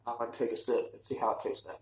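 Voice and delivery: talking with the nose pinched shut; nasally, nose held closed. Real, not acted. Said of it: "get that nice nasally voice".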